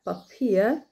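بابير whispered with breathy P. Shown as a demonstration. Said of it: "نجيب معاه همس كده".

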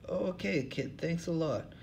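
put-on old hobo, voice pitched well up. Hobo Lou Jenkins to the interviewers, in a high put-on voice. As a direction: play the suspicious bum, pitched high.

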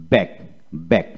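ব্যাগ closing straight on a hard G; silent U and E. Shown as a demonstration. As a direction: model ব্যাগ as one short syllable, nothing after G. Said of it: "ই উচ্চারিত হবে না।". (ব্যাগ, শেষে ইউ ই অনুচ্চারিত)

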